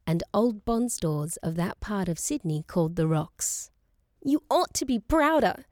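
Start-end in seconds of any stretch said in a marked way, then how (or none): 4.2-5.6 raised, higher voice in passionate grief; half-yell it, pitched up with hurt; impassioned yell. A narrator's reading. Enraged daughter reproaching mother over the new home, impassioned yell. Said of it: "she yelled in her passion and grief".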